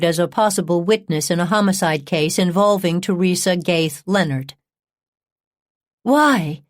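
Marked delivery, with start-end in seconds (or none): 6.0-6.6 higher-pitched, stricken why; mildly acted upset disbelief; distraught questioning. A narrator's reading. Upset wife demands an explanation.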